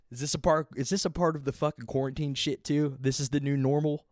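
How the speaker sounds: high, loud disbelief; incredulous questioning. Real, not acted. Challenging the show's new normal excuse, incredulous. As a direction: pitch up in exasperated challenge.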